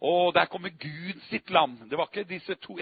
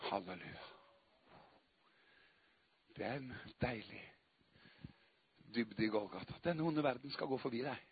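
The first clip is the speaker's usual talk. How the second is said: soft, lower, almost whispered devotion; quiet prayerful preaching, much softer; hushed worship; 4 semitones lower, 5 dB quieter, faster than usual. Acted. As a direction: pull back to an intimate hush. Hushed intimate worship passage.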